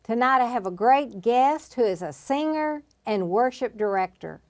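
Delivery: show host introduction. Acted. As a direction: welcome the audience and present tonight's guest.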